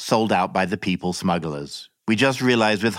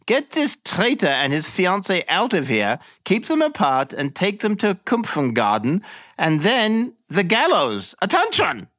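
much higher contemptuous voice, peaking on Attention; snarling officer; 10 semitones higher than usual. Acted. Captain ordering the sergeant to take them away, high snarl. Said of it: "He snarled at the sergeant".

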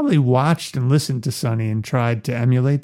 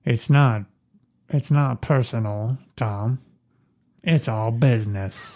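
a light take on a calm Godfather threat; Jack Nicholson impression; 2 semitones lower, 5 dB quieter, slower than usual. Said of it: "Jack Nicholson".

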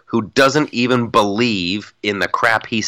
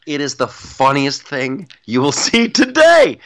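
amused laughing; 4 semitones higher than usual. Real, not acted. Cracking up describing parody videos.

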